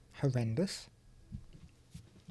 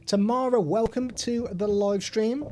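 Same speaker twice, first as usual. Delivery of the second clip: cheerful greeting; 5 semitones higher, 3 dB louder than usual. Real, not acted. Greeting a viewer on stream.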